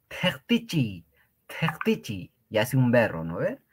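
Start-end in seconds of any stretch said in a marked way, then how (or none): 0.1-2.3 "tectichi" whispered; whispered word. Shown as a demonstration. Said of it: "Freír, tectichi".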